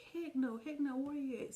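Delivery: high, loud refusal; the sister furious, loud and high; angry outburst. Retold or imitated. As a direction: snap it out angrily. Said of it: "she was like".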